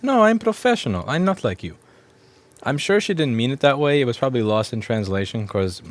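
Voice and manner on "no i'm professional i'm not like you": a hint of a haughty woman; lightly voiced haughty coworker; customer quote. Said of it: "And she goes".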